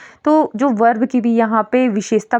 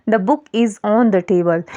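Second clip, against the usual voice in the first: slow example read; much slower than usual. Shown as a demonstration. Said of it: "जैसे इसका एक sentence है".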